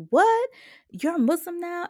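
high, loud shocked cry of disbelief. Retold or imitated. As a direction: mom can't believe her ears. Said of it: "She was super shocked".

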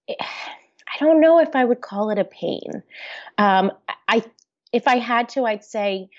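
barely voiced, breaking into a whisper; choked up. Real, not acted. Guest chokes up answering the host's question, near-whispered. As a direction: let the emotion catch the words so they almost vanish. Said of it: "I'm getting a little emotional".

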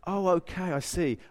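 soft, sobered admission; quiet realisation. Retold or imitated. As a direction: let it dawn on you softly. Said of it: "to realize".

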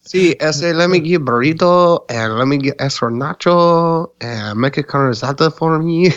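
mock Mexican accent. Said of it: "a Mexican flair, like, a little accent".

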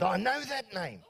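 slow, imitated South African accent. Colleague recalling Peter's name, slow South African accent. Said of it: "doing my South African accent".

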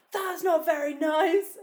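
loud, high, slow offended protest; mock-outraged shout; indignant call back. Her retort, retold.

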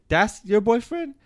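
high, slow, loud mock of a pushy stranger; mocking challenge. Retelling a stranger challenging him at the club, high loud mock sneer. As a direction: stretch it out high like a guy picking a fight. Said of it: "He's like".

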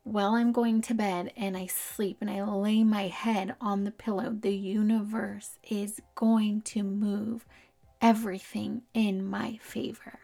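a light celebrity impression, slowing to spaced-out words; Kim K. Shown as a demonstration. Podcaster demonstrating how she talks to herself, light Kim K voice. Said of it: "use your Kim K voice".

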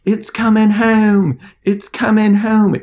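high, drawn-out mock English accent; terrible English accent. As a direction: chant it slowly in a bad English fan accent. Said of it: "It's a terrible accent".

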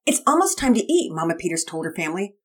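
a mother cooing at a new dog; Mama Peters. Acted.

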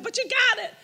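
imitating the landlady, laughing; landlady insisting. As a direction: mimic the landlady pressing the point.

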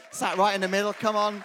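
loud call across the room. Real, not acted. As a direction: call them up over the crowd. Pastor calls couple up front.

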